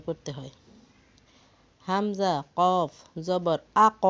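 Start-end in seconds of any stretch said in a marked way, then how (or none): 1.9-4.0 আক closed with a bouncing echo on the ক; echoing qalqala. Shown as a demonstration. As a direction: let the final ক rebound like an echo. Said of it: "এভাবে পাল্টা আওয়াজের মতো একটা ধ্বনি করে".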